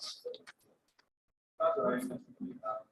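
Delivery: slow, high breathy whisper; soft whisper. Shown as a demonstration. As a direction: whisper it slowly and gently.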